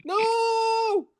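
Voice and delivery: very high, hammed-up refusal; high mock no. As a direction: squeak out a mock no. Coach reacting again.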